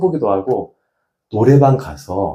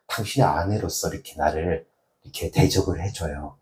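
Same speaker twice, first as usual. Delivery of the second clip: calm sincere plea; 2 semitones lower than usual. Shown as a demonstration. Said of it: "이렇게 말하는 거죠".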